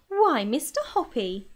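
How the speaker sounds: a touch of happy surprise, slowed; lady delighted at the proposal; delighted cry. Acted. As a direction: exclaim warmly at last. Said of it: "she cried".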